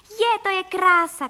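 put-on a boy shouting with joy in the sky; excited shout. A narrator's reading. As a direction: shout it with delight while flying. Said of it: "křičel Vilda".

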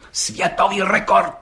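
high, slow, ceremonial proclamation; solemn repetition. A narrator's reading. Policeman repeating the record to the judge, solemnly. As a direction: proclaim it grandly, drawing out each word. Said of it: "opakoval četník Hejda slavnostně".

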